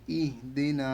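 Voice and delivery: ইহ দি না with an audible h after ই, long final না; sounded h. Shown as a demonstration. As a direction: make the h in ইহ clearly heard. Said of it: "ইহটা যেন উচ্চারণে আসে". (ইহ-এর হ স্পষ্ট করে)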